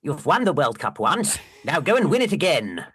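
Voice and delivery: imitating a posh football manager; Alf Ramsey fake posh voice. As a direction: put on a mock-posh team-talk voice. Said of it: "His fake posh voice".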